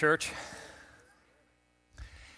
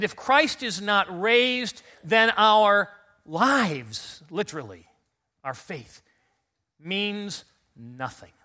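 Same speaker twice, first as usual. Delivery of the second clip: slow quote; 4 semitones higher, 4 dB louder, slower than usual. Retold or imitated. Quoting Paul slowly.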